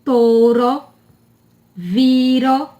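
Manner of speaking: TOURO and VIRO with a tapped R; weak R. Shown as a demonstration. Teacher giving examples, weak tapped R. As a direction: say "viro" with one light flick of the R. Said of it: "são R com som fraco".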